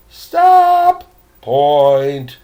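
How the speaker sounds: loud startled shout; sharp shouted command. Acted. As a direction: stop them dead with a yell. Guide calls a sudden halt.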